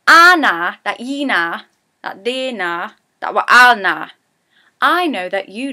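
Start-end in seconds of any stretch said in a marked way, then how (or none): 0.1-4.1 loud Geordie Anna, then quicker; Geordie sentence. Shown as a demonstration. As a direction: rattle off the Geordie line. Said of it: "I like to use the sentence".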